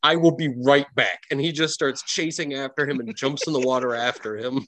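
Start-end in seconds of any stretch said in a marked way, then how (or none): 0.0-1.2 eager sidekick voice. Acted. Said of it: "He's like".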